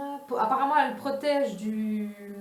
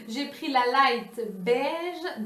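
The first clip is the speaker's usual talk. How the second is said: laughing; 4 semitones higher, much slower than usual. Real, not acted. Laughing after buying both.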